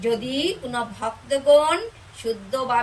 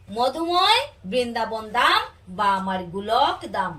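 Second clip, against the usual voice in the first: measured sermon recitation. Acted. Expounds the Gita to devotees.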